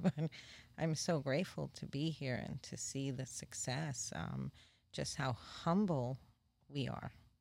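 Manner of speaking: heartfelt, near-crying, on the verge of tears. A grateful speaker talking about the process, sounding close to tears. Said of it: "I know I sound like I'm going to cry".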